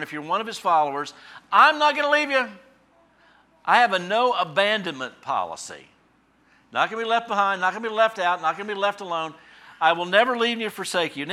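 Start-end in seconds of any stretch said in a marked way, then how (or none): 1.5-11.2 higher and louder, driving promise; fervent preaching. Acted. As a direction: preach it with building conviction. Voicing God's promise, preaching.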